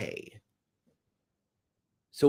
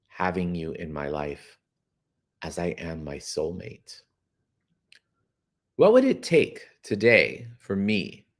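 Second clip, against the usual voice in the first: tender question. Shown as a demonstration. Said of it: "I want you to ask that money".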